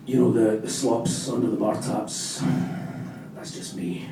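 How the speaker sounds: put-on low, slow, mumbled Glasgow drunk; vague Glasgow accent. Drunk confessing at AA in a vague Glasgow accent. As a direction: slur it like a Glaswegian boozer. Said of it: "vaguely Glasgow accent for that".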